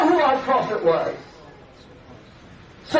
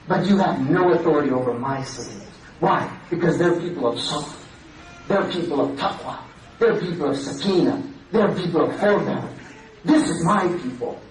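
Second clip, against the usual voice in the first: much lower, grave and steady; solemn divine voice; 9 semitones lower than usual. Acted. Preacher voicing God's answer to Shaitan, low and grave. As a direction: speak with calm, final authority.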